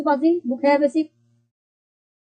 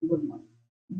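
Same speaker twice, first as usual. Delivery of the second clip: whispered "गुड मॉर्निंग" as the quiz answer; teacher answers his own quiz question in a whisper; soft answer; 4 semitones lower, 12 dB quieter than usual. Shown as a demonstration. धीमे फुसफुसाकर जवाब. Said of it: "क्या बोलना है?".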